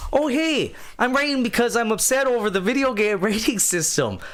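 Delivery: bright, high Canadian voice; Canadian accent. Retold or imitated. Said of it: "I might be able to do Canadian".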